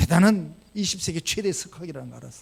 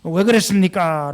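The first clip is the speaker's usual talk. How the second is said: slow quote; 8 dB louder, slower than usual. Retold or imitated. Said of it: "라고 말했더니".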